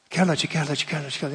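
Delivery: fading repetition. Real, not acted. Preacher to congregation, musing on love until it fades. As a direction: let each kjærlighet die away.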